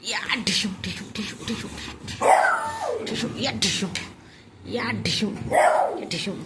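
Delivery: play-fight noises. Pretend.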